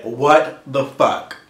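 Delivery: drawn-out, indignant question; slow disbelief. Retold or imitated. Client to counselor after the scare, slow disbelief. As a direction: spell out the disbelief word by word. Retold outburst after negative result.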